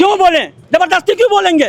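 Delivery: heated protest. Real, not acted. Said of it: "आराम से बात करिए".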